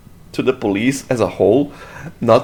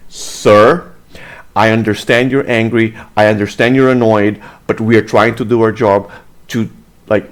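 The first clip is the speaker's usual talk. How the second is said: composed, lower-pitched professional tone; reasonable officer; 4 semitones lower than usual. Acted. Officer addressing an angry citizen, composed and firm. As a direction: calmly placate an annoyed citizen. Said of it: "this is how a normal human being would react".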